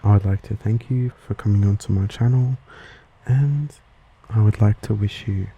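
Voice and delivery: relaxing, measured accent explainer; ASMR lesson. Real, not acted. Host relaxing listeners with an accent lesson, calm ASMR delivery. Whisper ASMR video throughout.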